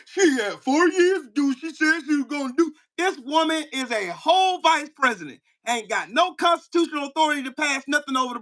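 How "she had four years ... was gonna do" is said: lightly voiced dismissive commenter, mocked; mocking internet critics. Mocking internet commenters' talking points, lightly put-on voice. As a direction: parrot the critics like it's dumb chatter. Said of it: "just saying stupid shit".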